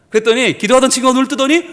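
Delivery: ordinary delivery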